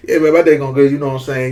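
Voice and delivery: run-together country Southern reply; Southern dialect. Shown as a demonstration. Showing how he answered a greeting, Southern dialect. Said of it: "I said just like that".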